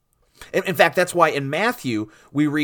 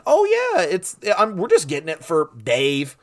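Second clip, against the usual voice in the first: mock casual excuse; 4 semitones higher than usual. Preacher mimicking disciples pretending it's for Dave, mock casual excuse. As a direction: play a hammed-up fibber brushing off questions.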